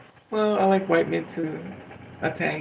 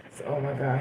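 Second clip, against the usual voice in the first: ordinary delivery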